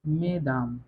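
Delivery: "मेदाम" with e in the first syllable, s silent; pronunciation demo. Shown as a demonstration. Teacher modelling my ladies in French, careful demonstration. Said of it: "यहाँ पे pronunciation ई का होगा".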